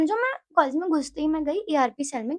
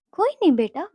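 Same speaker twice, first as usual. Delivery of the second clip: imitating a soothing father; lightly lilting comfort for a child; loving reassurance; 3 semitones higher than usual. Papa consoling daughter on the phone, imitated loving reassurance. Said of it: "बहुत ही प्यार से पापा ने बोला".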